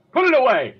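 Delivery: loud, high cry of revulsion; alarmed shout. Real, not acted. Player begs game master to hide doll, alarmed shriek. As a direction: shriek it to get it out of sight. Recoiling from creepy doll picture.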